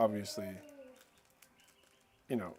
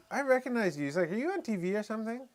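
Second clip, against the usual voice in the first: much higher, thrilled recognition; excited stranger; 10 semitones higher than usual. Retold or imitated. The stranger recognizing him from TV, thrilled. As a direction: squeal it like spotting a celebrity.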